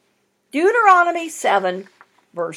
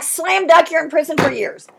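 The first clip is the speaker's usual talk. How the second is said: louder, higher sudden burst; preacher's mock verdict, raised; mock judge; 3 semitones higher, 4 dB louder than usual. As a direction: slam it down like a harsh judge. Preacher mocking harsh judges.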